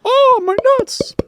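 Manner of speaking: loud, drawn-out falsetto yelp; mock squeal of agony, way up high; slow high-pitched cry of a man kicked in the nuts. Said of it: "his voice goes higher".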